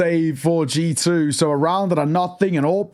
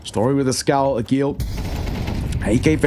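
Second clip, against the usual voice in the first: excited live play-by-play; esports caster. Real, not acted. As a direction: call the clutch as it unfolds.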